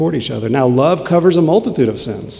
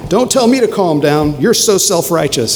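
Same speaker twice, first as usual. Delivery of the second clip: heated comeback; 5 semitones higher than usual. Acted. Acted heated spouse quarrel.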